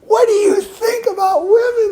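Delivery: high shrill shouted cry; screaming. Retold or imitated. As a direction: neighbour girl screams at him in front of his house, high crying shout. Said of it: "she comes screaming".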